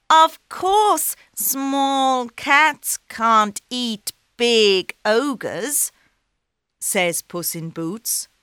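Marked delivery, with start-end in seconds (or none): 0.1-5.9 high, slow and coaxing; sly cat. Acted. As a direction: agree slyly to trap him.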